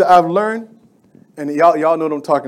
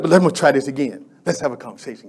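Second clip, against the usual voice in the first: coaxing; 5 semitones lower, 5 dB quieter, faster than usual. Acted. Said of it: "he was mad at first".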